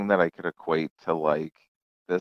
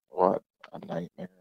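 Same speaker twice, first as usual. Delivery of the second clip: exasperated sigh; 11 semitones higher, 6 dB quieter than usual. Retold or imitated. Exhausted relief after cop.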